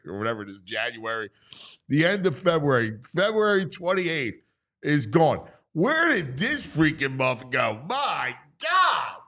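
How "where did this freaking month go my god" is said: high, drawn-out mock disbelief; amazed exclamation. Real, not acted. Host marvelling that the month is gone, amazed.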